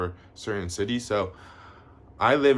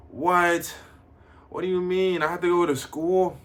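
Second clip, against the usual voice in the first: mock shocked viewer; 7 semitones higher, 4 dB louder than usual. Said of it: "You're like".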